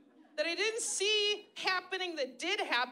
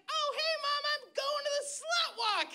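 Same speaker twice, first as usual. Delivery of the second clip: high, breezy announcement; high chirpy reply to mom; mock cheery self; 12 semitones higher than usual. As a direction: toss it off brightly, high. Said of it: "I was like".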